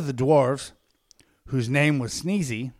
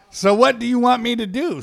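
a bit insecure; 10 semitones higher, 7 dB louder than usual. A narrator's reading. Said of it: "a little bit insecure".

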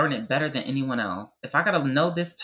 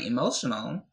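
real, understated emotion, a little softer; getting emotional; 4 dB quieter than usual. Real, not acted. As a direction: apologise as feeling wells up. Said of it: "I'm getting emotional because".

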